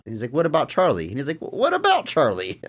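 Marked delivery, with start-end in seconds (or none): 0.3-1.1 retold offhand suggestion, slightly raised pitch; casual suggestion. First take of a retold suggestion. 1.4-2.6 higher, slower acted plea; emphatic repeated suggestion. Repeats the quote more emphatically.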